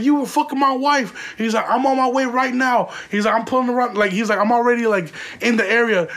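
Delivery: husband warns he is nearby, mock menacing; menacing threat. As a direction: keep the husband's threat going. Husband keeps threatening on phone.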